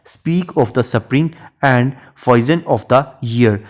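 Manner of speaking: slow, measured reading of a verse line; poetry recitation. Shown as a demonstration. Teacher reciting a Shakespeare sonnet line to students, slow and measured. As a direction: read each word of the sonnet out slowly.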